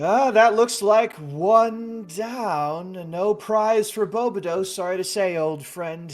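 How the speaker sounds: put-on cheerful host consoling an old friend; jovial dragon host. Pumpkagon announces miss.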